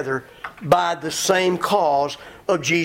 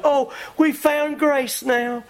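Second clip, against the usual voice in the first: mocking giddy convert; 5 semitones higher than usual. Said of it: "somebody comes along and says".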